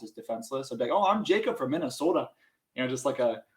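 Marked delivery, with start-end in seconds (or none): 0.9-2.3 a hammed-up Minnesota accent, a bit higher and louder; corny Minnesotan accent. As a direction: play the harmless Minnesota kid with a Minnesotan accent. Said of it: "emphasize my Minnesotan accent".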